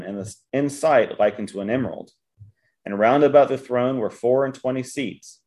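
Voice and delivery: measured, emphatic Bible reading; formal reading with weighted key words; scripture reading. Acted. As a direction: read it out firmly to a congregation. Reads scripture aloud.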